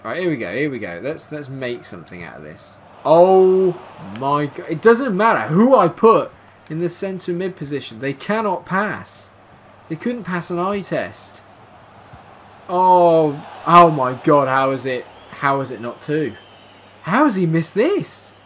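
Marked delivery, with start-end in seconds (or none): 3.0-4.7 loud, high exasperated cry; exasperated shout. Real, not acted. Yelling at midfielders who cannot pass, exasperated. 4.7-11.4 high, loud mocking rant; exasperated rant. Real, not acted. Complaining about the centre mid, high and exasperated. Ranting at midfielders. 12.7-18.3 high, loud outraged disbelief; can't believe the miss; disbelieving cry. Real, not acted. Reacting to an open goal missed, loud disbelief.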